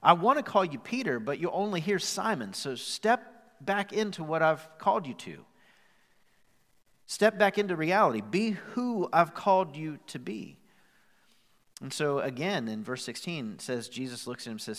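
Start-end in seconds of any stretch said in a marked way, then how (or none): 0.0-10.6 loud, higher commanding call; forceful charge. Retold or imitated. Jesus charging Peter to step back up, loud and commanding. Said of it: "He goes".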